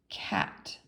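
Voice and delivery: whispered word. Shown as a demonstration. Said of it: "I'm gonna say a word".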